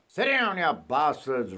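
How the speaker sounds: sudden high roar at the dogs, broad Australian. Acted. Bushman roaring at his barking dogs to sit down. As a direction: bellow it like an outback bushman. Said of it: "roared a broad Australian voice".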